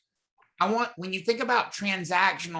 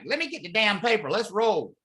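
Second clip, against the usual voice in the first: eager seller; 5 semitones higher than usual. Retold or imitated. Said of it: "or be like".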